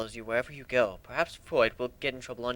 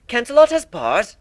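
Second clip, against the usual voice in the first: surprised question; 9 semitones higher, 10 dB louder than usual. A narrator's reading. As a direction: voice jumps up in surprise at bars. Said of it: "the younger sister asked".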